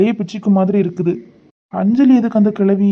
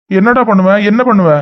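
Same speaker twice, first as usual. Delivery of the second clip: louder, daring him to act; confrontational, raised voice; angry challenge; 4 dB louder than usual. Acted. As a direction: throw the threat back in his face. Brother confronts father in quarrel.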